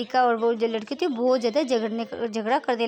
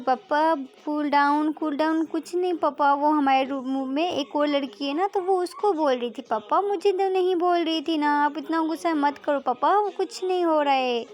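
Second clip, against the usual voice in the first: higher-pitched placating plea; mildly anxious coaxing; pleading daughter; 4 semitones higher than usual. Acted. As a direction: try to calm an angry parent. Daughter soothes angry father.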